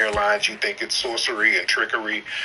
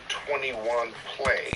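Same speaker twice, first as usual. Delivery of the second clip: calling out slowly; 5 dB quieter, much slower than usual. Real, not acted. Calling a guest up to speak.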